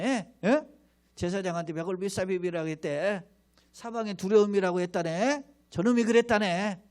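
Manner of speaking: lightly voiced jeering crowd, half-mocking; a hint of townsfolk sneering at the prophet; understated mocking gossip; mild sneering taunt. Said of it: "이렇게 비-, 빈정거리는 거예요".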